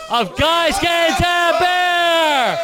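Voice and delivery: big booming show intro shout; shouted announcement. Acted. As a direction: announce the show title, roaring. Hyping show episode announcement.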